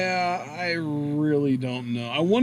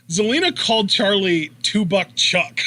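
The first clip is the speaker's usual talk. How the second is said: loud, higher, tickled delivery bursting into a laugh; 4 semitones higher, 5 dB louder than usual. Real, not acted. Co-host telling listeners the silly nickname, laughing. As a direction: blurt it out loudly before cracking up. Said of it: "I'm just laughing".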